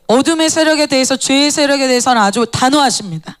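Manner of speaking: emphatic, thundering sermon delivery; forceful preaching. Real, not acted. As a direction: hammer it home with firm resolve. Preaching God's wrath at sin.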